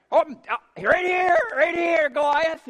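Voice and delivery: high, loud attention-getting call; small challenger calling. Acted. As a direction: call up to a giant to be noticed. David calls up to Goliath.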